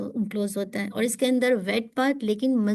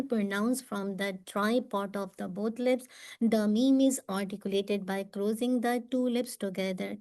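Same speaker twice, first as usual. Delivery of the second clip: slow reading; much slower than usual. Shown as a demonstration.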